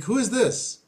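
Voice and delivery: demanding voice. Retold or imitated. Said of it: "And he's like".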